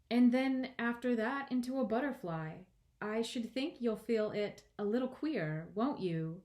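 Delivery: put-on understated, lilting girl character; earnest young Alice. A narrator's reading. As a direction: reason it out politely. Voices Alice to the caterpillar.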